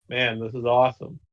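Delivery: flat monotone delivery. Pretend. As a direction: say it deadpan with no excitement. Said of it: "in Undead's, like, monotone voice".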